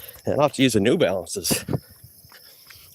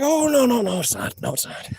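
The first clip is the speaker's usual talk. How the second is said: mock protest; 11 semitones higher than usual. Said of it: "I'm like".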